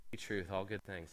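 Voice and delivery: soft, low tempter, lightly voiced; hushed voice of the ice cream; tempting ice cream voice. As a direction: coax him like a sly temptation.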